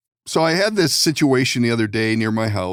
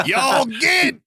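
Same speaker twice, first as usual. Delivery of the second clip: put-on West Virginian accent; 14 semitones higher than usual. Running trespassers off the yard, West Virginian accent shout. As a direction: yell it like a West Virginian chasing folks off. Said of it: "say, a West Virginian accent".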